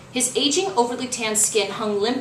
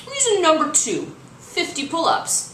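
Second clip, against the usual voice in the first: panting; 9 semitones higher than usual. Acted. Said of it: "he panted".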